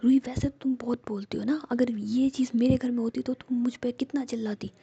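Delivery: a hurt friend's whispered reproach, rising; whispered anger. Acted. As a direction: scold her hotly but never leave the whisper. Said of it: "और तुम मुझ पे गुस्सा कर रही हो".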